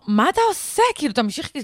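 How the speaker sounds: גבוה וחזק, בהלה מול הנהג; דורשת בפאניקה שימשיך; צעקה מבוהלת. Retold or imitated. Panicked demand to the driver. (צועקת על הנהג בבהלה גבוהה)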